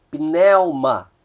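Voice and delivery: "pneuma" with the stress on the diphthong; Greek diphthong demo. Shown as a demonstration. Teacher modelling the word for students, stress on the diphthong. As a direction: say "pneuma" carefully, sounding the "pn". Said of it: "o acento ele recai sobre a segunda vogal".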